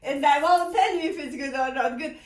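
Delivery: fast, laughing through words. Real, not acted. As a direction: tease with a laugh. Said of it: "laughing while talking".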